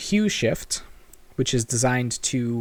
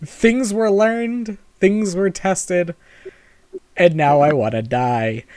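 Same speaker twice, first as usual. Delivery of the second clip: dramatic; 4 semitones higher than usual. Acted. Dramatic session recap.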